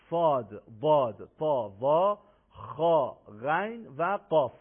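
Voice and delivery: each letter full and thick; heavy articulation. Shown as a demonstration. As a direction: say the Arabic letters heavily, one by one. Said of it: "اینها باید درشت تلفظ بشن".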